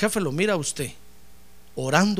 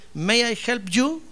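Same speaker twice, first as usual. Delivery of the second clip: English phrase; 5 semitones higher, slower than usual. Retold or imitated. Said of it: "chalequitos que dice".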